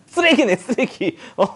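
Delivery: laughing out the word, loud and high; real laugh mid-tease. Real, not acted. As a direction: burst out laughing while scolding in jest. Teacher teases student over snacks.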